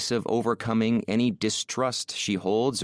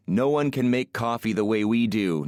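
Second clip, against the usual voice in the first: lightly mocking boast, near the usual voice; teasing mock quote; 2 semitones higher than usual. Man teasing an Italian woman about coffee snobs, mildly mocking. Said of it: "Those Italians".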